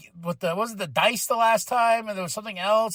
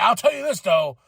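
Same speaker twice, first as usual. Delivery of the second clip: mock Don voice. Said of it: "But he's like".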